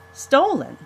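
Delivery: high, loud disbelieving question; incredulous echo. Acted. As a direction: echo the word in shock. Boy echoes in disbelief.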